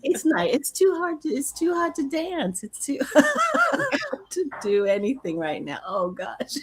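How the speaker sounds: laughing. Real, not acted. Laughing fit in the heat.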